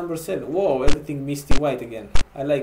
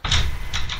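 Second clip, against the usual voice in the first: voiceless sigh; weary sigh. Real, not acted. Player faces it all once more, weary sigh. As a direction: let out a heavy breath. Game goes wrong again.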